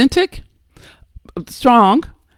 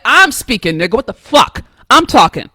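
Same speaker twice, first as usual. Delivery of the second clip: a louder, confrontational version of the same line; the speaker showing how she would have snapped back; flexing, aggressive comeback; 4 dB louder than usual. Pretend. Speaker contrasting her own hothead reply with the senator's calm, mildly louder. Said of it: "she didn't have to flex".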